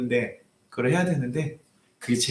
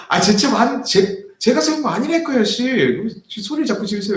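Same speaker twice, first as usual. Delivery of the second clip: high, louder mock yell; retold yelling back; 9 semitones higher, 3 dB louder than usual. Pastor retelling how he yelled back at the old man. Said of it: "제가 소리를".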